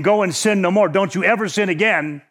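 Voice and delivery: mild mock scolding, said briskly; mildly condemning. Preacher mimicking what Jesus was not saying, mildly condemning. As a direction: imitate a condemning warning, lightly stern. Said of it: "He was not saying".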